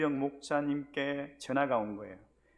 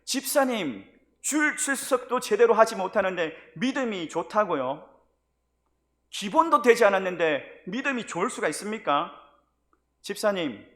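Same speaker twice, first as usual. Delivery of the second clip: loud, heated rebuke that climbs higher; scolding; 4 semitones higher, 9 dB louder than usual. Retold or imitated. Pastor scolding a lax deacon couple, loud angry rebuke. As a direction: tear into him like a furious pastor. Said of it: "제가 막 야단을 쳤습니다".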